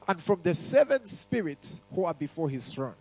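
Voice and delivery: slow, measured Bible reading; scripture reading. Acted. Preacher reading Revelation aloud to the congregation, slow and measured. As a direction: read it out slowly to the church.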